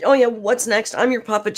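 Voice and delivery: high, loud mocking voice of Amber. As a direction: squeal it up high like a grovelling host. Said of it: "And then".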